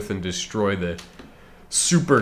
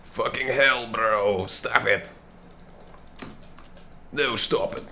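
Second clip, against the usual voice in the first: frustrated panic; 3 semitones higher, slower than usual. Real, not acted. Chased by enemies.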